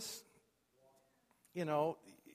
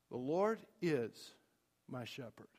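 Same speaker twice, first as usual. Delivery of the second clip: quiet morning declaration; 6 semitones lower, 5 dB quieter than usual. Shown as a demonstration. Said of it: "just say".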